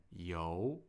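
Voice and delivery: 游 with a rising second tone. Shown as a demonstration. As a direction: let 游 climb as a Mandarin second tone. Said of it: "which is the rising tone".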